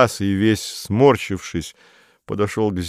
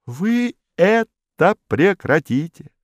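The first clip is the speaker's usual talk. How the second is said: stern official; 11 semitones higher, slower than usual. A narrator's reading. Modest repeats the order.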